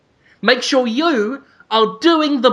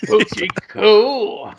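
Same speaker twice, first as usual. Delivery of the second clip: Telly Savalas; slower than usual. Acted. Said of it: "And he goes".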